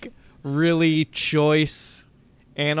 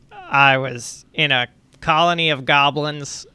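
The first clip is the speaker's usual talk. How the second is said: vulture voice. Acted. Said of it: "whisper in my vulture voice".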